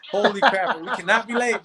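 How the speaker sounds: laughing through the panic; half-laughing alarm, pitch up. Retold or imitated. Realizing he's meeting Sly, laughing in panic. Reading Sly's name, panicking.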